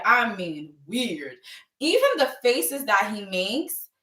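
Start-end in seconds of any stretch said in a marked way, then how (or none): 0.1-1.4 "weird" drawn out slowly for emphasis; emphatic WEIRD. Real, not acted. Host stressing how Liam acts, "weird" stretched emphatically. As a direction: stretch "weird" long and slow. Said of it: "when I say weird".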